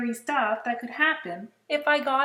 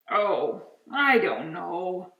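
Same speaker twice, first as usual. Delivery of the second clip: trying to sound terrifying; 5 dB louder, slower than usual. Acted. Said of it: "trying to sound terrifying".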